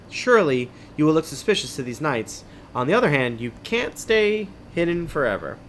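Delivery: measured, dramatic adventure-book reading; story narration. A narrator's reading. Host reading an adventure book to listeners, story narration. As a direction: read it like a suspenseful tale.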